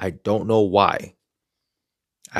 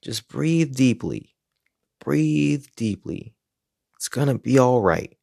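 calming coach voice; slower than usual. Retold or imitated. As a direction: talk him down gently like a patient coach. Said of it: "in his calming voice".

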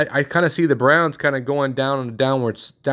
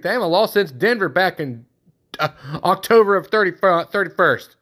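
put-on Chicago Bears accent; 4 semitones higher than usual. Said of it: "I keep catching myself talking like".

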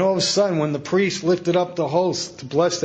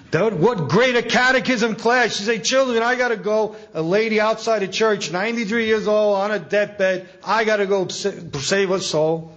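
higher-pitched, emphatic mock exhortation; urgent retold rebuke; 6 semitones higher than usual. Priest urging a catechism teacher to save a dying soul, urgent retelling. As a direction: act out urging with raised pitch.

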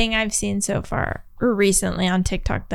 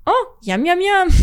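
NPC streamer voice; 7 semitones higher than usual. Retold or imitated.

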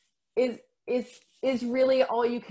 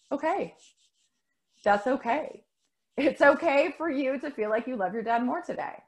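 put-on higher, accepting reply to a child; gently allow the child's feeling; retold motherly reassurance, pitched up; reassuring mother; 4 semitones higher than usual.

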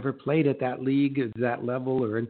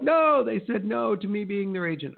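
protesting agent; 7 semitones higher than usual. Acted. Voicing a discouraged coached agent.

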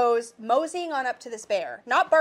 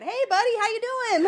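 friendly bear greeting; 10 semitones higher, 3 dB louder than usual. Retold or imitated. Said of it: "starts talking to it".

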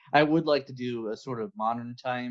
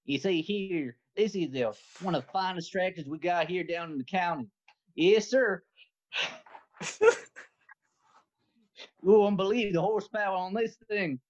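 Southern redneck salesman showing off a tractor; 6 semitones higher than usual. Acted. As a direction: pitch the tractor like a proud county redneck. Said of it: "could you sell me a tractor as a redneck".

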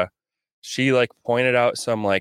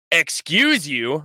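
sassy retort; 4 semitones higher, much slower than usual. Retold or imitated. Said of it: "I've been like".

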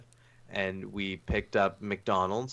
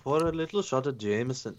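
put-on Irish accent; 3 semitones higher than usual. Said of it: "Irish accent".

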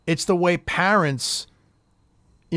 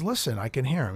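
retold hushed aside, much softer; quiet; 6 semitones lower, 9 dB quieter than usual. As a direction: drop the voice as if the daughter mustn't hear. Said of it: "he's very quiet and he says".

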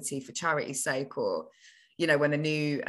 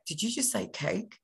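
put-on excited child; 5 semitones higher, 6 dB quieter than usual. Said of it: "I look at my mum and I'm like".

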